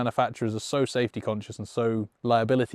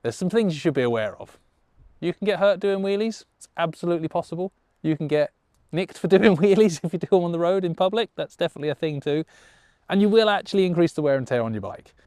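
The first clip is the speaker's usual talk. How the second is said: put-on grumpy old man voice; 3 semitones higher than usual. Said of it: "my grumpy old man voice".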